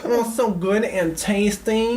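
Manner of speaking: slow, dreamy stoned drawl; dazed stoned friend. Retold or imitated. Stoned friend Jesse staring at the menu, slow and dazed. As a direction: savour it slowly, dazed. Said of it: "just looking at everything".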